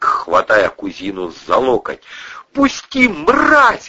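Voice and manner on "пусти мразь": very high, loud shriek. A narrator's reading. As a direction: shriek it at him. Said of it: "завизжала она".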